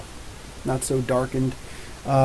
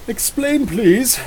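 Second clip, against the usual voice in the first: playful demand; 8 semitones higher, much slower than usual. Pretend. Asks chat to explain.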